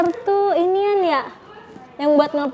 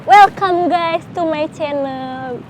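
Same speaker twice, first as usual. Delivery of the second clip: vlogger intro; much slower than usual. Retold or imitated. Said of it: "kayak, ... Kayak siapa dah?".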